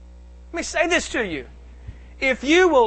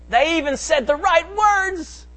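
high, drawn-out preacher's proclamation; emphatic preaching; 6 semitones higher, slower than usual. Real, not acted. Preacher to congregation on false repentance, emphatic preaching. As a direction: preach it slowly with raised pitch.

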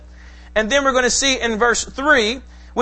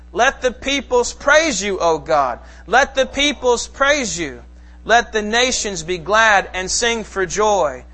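slow, measured public psalm reading; slow congregational reading; slow scripture reading; slower than usual. Acted. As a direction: read it aloud with the congregation, steady and unhurried. Congregation reads psalm aloud.

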